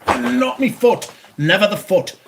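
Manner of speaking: high, slow whimpering complaint; pained wail. Real, not acted. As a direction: whine about the hurt foot. Just hurt his foot.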